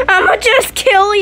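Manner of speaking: playful threat on the tail of giggles; mischievous glee. Real, not acted. Child threatening sister in game, gleeful. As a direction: say it fresh from laughing. Repeats threat after laughing.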